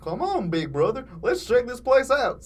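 retake as a slow dopey Goofy. Acted. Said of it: "said Mugman".

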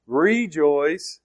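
"rejoice" broken into RE and JOICE; split word. Shown as a demonstration. Preacher shows the two parts of the word, deliberate. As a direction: lean on the "re" and the "joy" inside "rejoice". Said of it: "and re, which means say it again".

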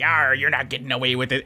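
lightly voiced hammed-up pirate; a hint of a swaggering pirate; pirate type. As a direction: give it a quick mock pirate growl. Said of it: "some pirate type here is like".

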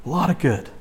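"A lot of good" hushed, as an afterthought; soft echo. Shown as a demonstration. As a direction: let "A lot of good" fall away, almost to yourself.

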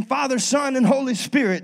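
preacher's blessing. Retold or imitated. Preacher baptizing in joke.

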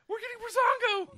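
high, loud squeal of delight; very excited. Retold or imitated. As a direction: shriek it like a thrilled fan. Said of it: "You're very excited".

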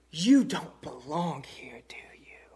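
slow, hushed whisper; whispered question. Acted. Preacher voicing onlookers to the congregation, whispered. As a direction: lean in and whisper it, slowly. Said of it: "people ought to say".

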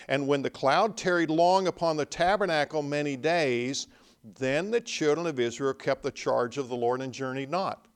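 ringing, emphatic reading of the verse; scripture reading. Acted. Preacher reading verse nineteen aloud, emphatic reading. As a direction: proclaim the verse to the room.

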